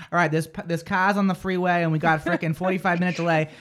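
lightly mocked Boston accent; radio traffic report in a Boston accent. Radio host showing why she lost it, Boston accent. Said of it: "she kinda still has her accent".

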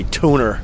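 Long Island "tuner" with an r tacked on the end; Long Island accent. Shown as a demonstration. Joking about his own accent, saying "tuner" in a Long Island accent. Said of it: "the Long Island accent is fucked up".

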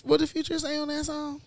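a loose mock impression of a rapper. Co-host asks in her take on a rapper's voice, a light imitation. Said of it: "is that your Future voice?".

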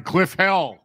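high, mocking echo with an open e in "Hell"; "Hell" with an eh vowel, teasing; Hill said as Hell. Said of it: "Did you hear him?".

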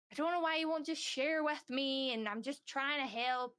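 mildly hammed-up frustration of someone trying to help; frustrated pleading. Dad pushing to help his silent child, frustrated. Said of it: "he's getting more frustrated".

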